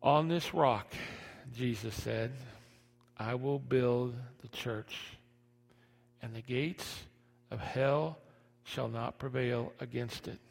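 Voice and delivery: soft, slow tender preaching. Acted. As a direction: speak it gently and slowly. Soft quoted scripture.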